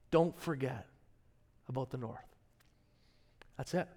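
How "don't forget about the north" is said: soft whisper. Retold or imitated. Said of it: "he just whispers into your soul".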